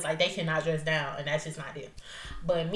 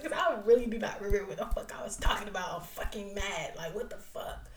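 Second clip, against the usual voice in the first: whispered confession of forgetting. Real, not acted. Host whispering to listeners she forgot, whispered. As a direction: breathe it out, unvoiced.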